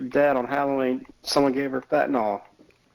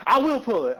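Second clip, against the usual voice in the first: higher, giggly imitation of his friend; laughing mock reply; 11 semitones higher than usual. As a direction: quote him while still laughing. Quoting friend mid-laugh.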